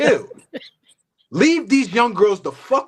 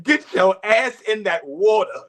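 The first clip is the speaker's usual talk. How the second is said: laughing. Real, not acted. Repeats it, laughing.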